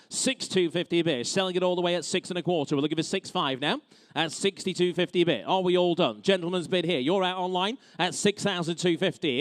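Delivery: brisk auction bid calling; auctioneer. Real, not acted. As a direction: rattle off the bids like an auctioneer.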